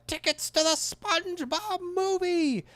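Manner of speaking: very high triumphant squeak; high excited cartoon squeal; Plankton impression. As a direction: crow it like a gleeful tiny villain. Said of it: "I can't do a Plankton impression".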